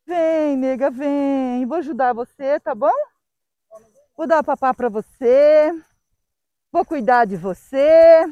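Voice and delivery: drawn-out sweet talk to a dog; tender coaxing. Real, not acted. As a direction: gently coax a scared stray, stretching the phrases. Coaxing a frightened stray dog. (voz carinhosa, chamando a cachorrinha)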